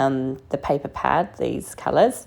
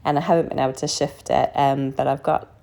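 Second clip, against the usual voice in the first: hoarse, croaky from bronchitis. Real, not acted. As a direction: talk through a sore, croaky throat. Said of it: "So excuse the croaky voice".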